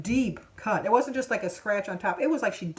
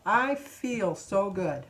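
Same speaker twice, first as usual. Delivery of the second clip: slow affirmation; much slower than usual. Real, not acted. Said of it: "repeated affirmation".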